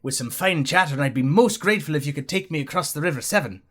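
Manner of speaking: a light put-on Welsh accent. Welsh hitchhiker politely asking for a lift, mild Welsh accent. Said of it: "I'm going for Welsh".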